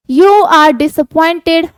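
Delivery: wheezy. Shown as a demonstration. Teacher reading Oswald's line to Fowler, slow and wheezy. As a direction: breathe heavily through the words like a wheezing fat man. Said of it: "Oswald said weasely over his shoulder".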